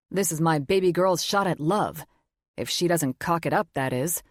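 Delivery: lightly voiced gruff teasing father; teasing dad. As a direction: rib her like a proud dad.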